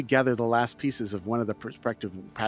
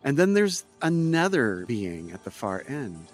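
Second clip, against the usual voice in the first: game master narration. A narrator's reading. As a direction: set the scene for the players. GM scene description.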